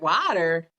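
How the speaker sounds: "Water" echoed with an open "ah"; mimicked "Water", first vowel unrounded; questioning friend's pronunciation. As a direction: query "Water" said as "wah-ter". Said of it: "And I'm like".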